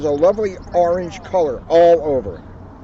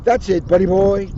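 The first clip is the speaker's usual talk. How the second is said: louder, delighted cry; joyful cry; 3 semitones higher, 6 dB louder than usual. Acted. Tigger answers Pooh's mud idea, crying with joy. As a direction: burst out with joy. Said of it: "Tigger cried with joy".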